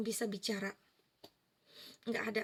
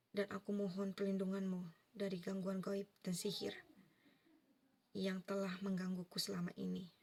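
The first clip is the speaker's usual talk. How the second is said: whispered prayer; 2 semitones lower, 6 dB quieter than usual. Retold or imitated.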